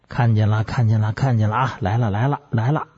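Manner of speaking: lightly voiced trance chant; a hint of séance babbling; medium's incantation. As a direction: drone it repeatedly, long and short. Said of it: "一会儿声音长， 一会儿声音短".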